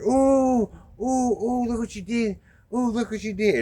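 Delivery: high squealing ooh, mock pleasure; squealing pleasure moan. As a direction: squeal it like he's loving the pain. David Lee squealing after being whipped.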